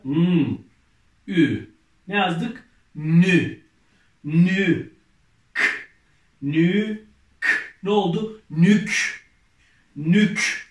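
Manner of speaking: loud, drawn-out syllable reading for the class; reading syllables aloud. Shown as a demonstration. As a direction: sound out each letter clearly, then blend them loudly. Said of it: "İlk başta hangi harfimiz var?".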